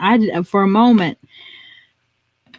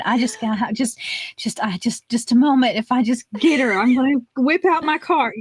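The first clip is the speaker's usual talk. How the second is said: stumbling over repeated words, mock impatience; breathlessly eager. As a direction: imitate someone itching to jump in. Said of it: "She was holding her breath".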